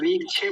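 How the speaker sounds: "रीक्षे" with chh instead of ksh; wrong chha sound. Shown as a demonstration. Teacher quotes how some people say it, chha for ksha. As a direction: mispronounce "रीक्षे" as reek-chhay. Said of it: "छाता वाला छ नहीं लगाएंगे".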